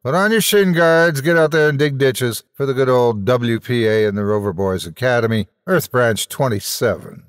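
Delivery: brisk rallying orders, fading to plain; pep-talk the troops. Acted. Quelch ordering his men out into the rain, rallying. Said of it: "cried Quelch".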